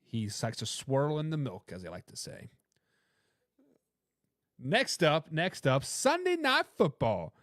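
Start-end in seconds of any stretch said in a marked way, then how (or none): 4.6-7.3 announcer voice. Acted. Host hyping the next game.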